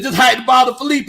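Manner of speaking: a real squeak while reading the comment aloud. Real, not acted. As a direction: pitch cracks high on Felipe, half shouted. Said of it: "y'all heard my voice squeak".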